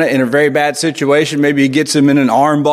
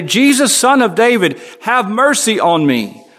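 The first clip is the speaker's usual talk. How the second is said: higher, pleading call to Jesus; crying out; 5 semitones higher than usual. Retold or imitated. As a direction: call out for help, pitched up. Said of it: "he began to cry out and say".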